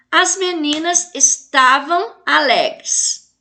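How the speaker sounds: slow, deliberate reading of the sentence; slow model sentence. Shown as a demonstration. Teacher modelling a correct sentence, slowly and clearly. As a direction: set out each word slowly for the class. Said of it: "Constitui frase".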